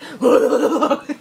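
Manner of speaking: loud wavering imitation of a dying llama; dying llama noise. Shown as a demonstration. Showing friend her llama noise, mock dying wail. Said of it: "I can make a dying llama noise".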